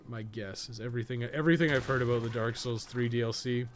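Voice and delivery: usual speaking voice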